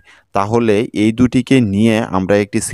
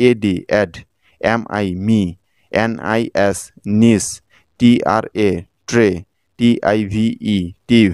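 letters, then syllable, with pauses between; syllable-by-syllable spelling; much slower than usual. Shown as a demonstration. Teacher splitting the word into syllables for learners, measured spelling-out. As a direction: spell out each chunk and sound it separately. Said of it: "সিলেবলে ভেঙে আলাদা করে নিব".

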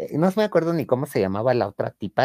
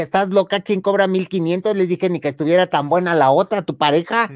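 mock indignant; 5 semitones higher, 4 dB louder than usual. Arguing about price.

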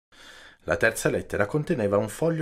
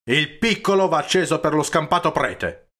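raised-pitch, forceful correction; emphatic objection; 6 semitones higher, 4 dB louder than usual. A narrator's reading. Peppone correcting Don Camillo about the small candle, emphatic outburst. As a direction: insist on it in an outburst.

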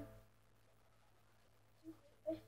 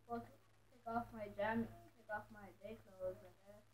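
from another room; 8 semitones lower, 34 dB quieter than usual. Real, not acted.

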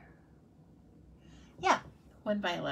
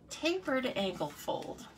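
slow, higher, fancy-sounding name; mock shishi; 5 semitones higher, slower than usual. Shown as a demonstration. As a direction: make it sound grander than it is. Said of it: "make it sound so much more shishi".

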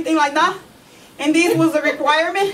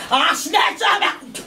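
slow, menacing yell; threat shout; slower than usual. Acted. Mama warning the other mom, slow shouted threat. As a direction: draw it out like a warning.

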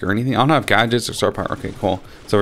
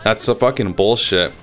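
pissed off; 2 semitones higher than usual. Real, not acted. Gamer protests a kill that got away, pissed off. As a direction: protest an unfair miss, annoyed. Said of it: "getting kinda pissed off".

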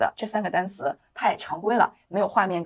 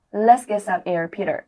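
imitating the clip. Shown as a demonstration. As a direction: copy her line with a bit more push. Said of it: "注意模仿".

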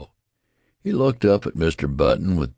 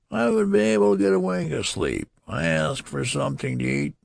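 much higher, fast protesting complaint; shrill protest; 11 semitones higher, faster than usual. Acted. Old newborn protesting to his father, shrill. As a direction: let the voice climb in protest. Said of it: "his voice rose to a shrill rise of protest".

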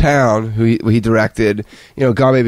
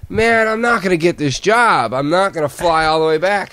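higher-pitched, mildly exasperated protest; a touch of exasperation, pitched up; frustrated; 5 semitones higher than usual. Retold or imitated. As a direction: retell it as a frustrated complaint. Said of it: "I was frustrated about it".

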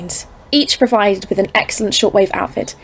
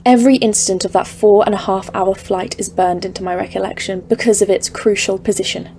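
ominous story narration; 3 dB quieter than usual. A narrator's reading. Narrator recounting the mountains.

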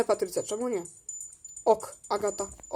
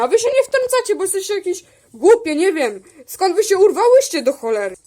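play-acted annoyance; 5 semitones higher, 3 dB louder than usual. Acted quarrel, insulting the others.

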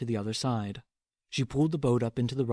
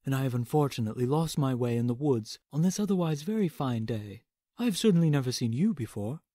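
soft gentle teddy bear. Acted. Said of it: "said the teddy bear".

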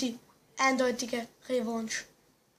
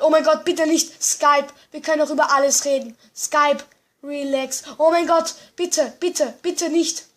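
mock panicked pleading; 6 dB louder than usual. Begging as enemies close in.

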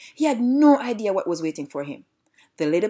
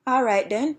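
mild angry shout, pitched up; 5 semitones higher than usual. Acted. Angry bad dog answering the piggy, mildly shouted. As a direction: raise the voice in mild anger. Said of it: "shouted the angry bad dog".

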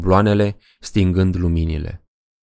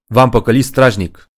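louder triumphant gotcha; gleeful prank shout; 4 semitones higher, 5 dB louder than usual. Acted. Man jumping from behind a tree shouts his prank. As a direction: burst out laughing at the scare.

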